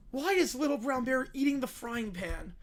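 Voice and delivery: breathless whisper of disbelief; whispered astonishment at the bear eating a pan; disbelieving whisper. Real, not acted. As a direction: whisper it, stunned.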